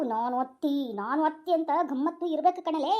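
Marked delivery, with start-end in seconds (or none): 0.0-0.9 haughty mother-in-law. Shown as a demonstration. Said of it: "ಅತ್ತಿ ಗಮ್ಮತ್ತು ತೋರಿಸ್ತಾ ಇರ್ಬೇಕು". 0.9-1.5 questioning mother-in-law. Shown as a demonstration. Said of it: "ಅತ್ತಿ ಗಮ್ಮತ್ತು ತೋರಿಸ್ತಾ ಇರ್ಬೇಕು".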